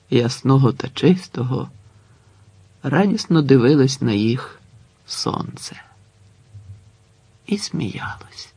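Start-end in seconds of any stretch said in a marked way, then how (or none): 5.1-8.5 whispered close; hushed ending. A narrator's reading. The narrator ends the story in a whisper. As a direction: breathe the last words out.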